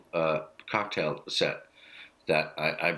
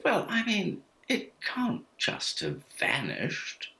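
put-on posh little boy; 12 semitones higher, slower than usual. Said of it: "who's weirdly become very, very posh".

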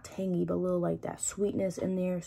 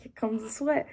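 whispered quote; 4 semitones higher than usual. Retold or imitated. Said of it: "I'm like".

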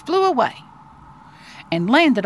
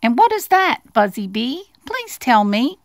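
pleading little mouse; 3 semitones higher, 3 dB louder than usual. Acted. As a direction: ask it sweetly as a small mouse. Mouse questions the bee.

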